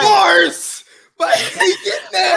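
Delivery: high laughing cheer; hyped laughing shout. Real, not acted. Hype reaction, laughing.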